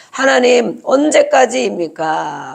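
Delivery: mildly acted plea to God; slow, drawn-out lament in prayer; crying out. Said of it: "기도하면서 부르짖는 거예요". (하나님께 부르짖듯 길게 끌며)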